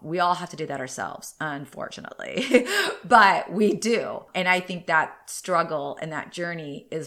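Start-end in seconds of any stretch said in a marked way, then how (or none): 2.9-4.2 laughing it out slowly. Real, not acted. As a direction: laugh through the words. Laughs at her own point.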